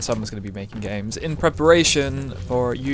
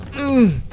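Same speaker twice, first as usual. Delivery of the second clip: mock moan; 13 semitones higher, 6 dB louder than usual. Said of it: "let's make more orgasm noises".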